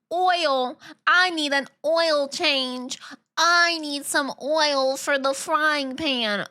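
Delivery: Southern drawl on "oil", stretched slowly; mock Southern "oil". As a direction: ham up a Southern "oil" in an oil change. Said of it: "we say oil really similar".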